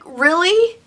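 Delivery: retold exasperation at a rude stranger; mad disbelief. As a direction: challenge him in mock disbelief. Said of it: "I just felt so mad".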